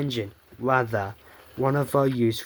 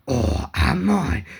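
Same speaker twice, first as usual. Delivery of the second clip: sinister tease; 5 dB louder, slower than usual. Acted. Possessed engine reveals itself.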